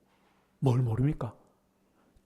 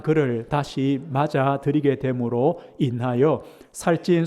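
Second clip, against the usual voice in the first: slow, measured scripture reading; solemn Bible reading from the pulpit; 3 semitones lower, slower than usual. Acted. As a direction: read the passage slowly and solemnly. Reads scripture passage aloud.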